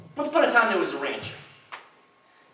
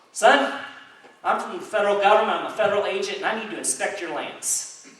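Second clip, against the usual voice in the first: lightly acted self-important official; federal agent; 4 semitones higher than usual. Federal agent announces himself to a rancher, lightly acted officiousness. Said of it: "this guy jumps out".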